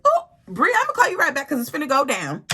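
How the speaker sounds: sudden high, loud brush-off into the phone; hyped up. Retold or imitated. Hanging up on Bri, thrilled a fight is coming, high and loud. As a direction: hang up fast, trouble is coming. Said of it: "I was like".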